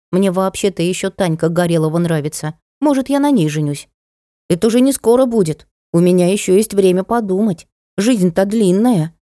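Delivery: lightly voiced child weighing things up; small boy, reasoning. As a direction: muse like a little boy, lifting the pitch. (по-детски рассудительно)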